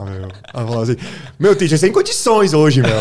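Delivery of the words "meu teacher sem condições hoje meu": hammed-up São Paulo Mooca accent, high and loud. Imitating a student from Mooca talking to teacher, exaggerated Mooca accent. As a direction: drag it out like a playful Mooca local, laughing. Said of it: "uma aluna da Moca".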